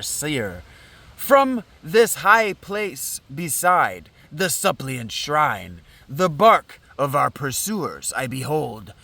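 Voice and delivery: lightly voiced Danaus, measured verse; solemn father figure. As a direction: declaim as a seer addressing the children.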